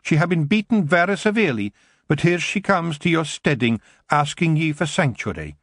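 a wee Scottish warrior scoffing at the elf; tiny Scottish Feegle grumbling about elves. A narrator's reading. Kelder explains.

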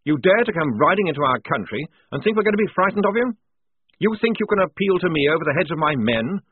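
defiant dressing-down, rising in pitch; indignant tirade. Acted. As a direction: build to righteous outrage at the bully. Lieutenant rounds on the enemy captain.

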